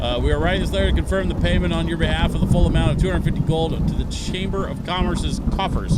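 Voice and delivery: official notice read aloud, brisk at first; formal letter reading. Acted.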